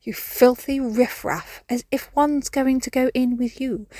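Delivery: a hint of a haughty posh cat, slow; snooty cat. Cat sneering at its owner's call, lightly posh and slow. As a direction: look down your nose at her, slowly. Cats' snooty reply voiced.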